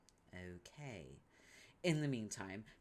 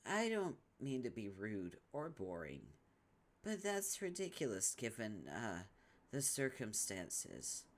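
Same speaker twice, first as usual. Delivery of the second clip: put-on Tavros in an American accent; timid American accent; 4 dB quieter than usual. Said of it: "Hearing you do an American accent's kinda freaky".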